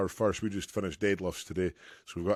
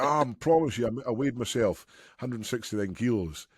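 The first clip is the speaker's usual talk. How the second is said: retold protest, pitched up at first; mock insistence; 4 semitones higher than usual. Retelling Tom swearing to his weight, mock insistence. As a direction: imitate an insistent protest, starting high and easing down.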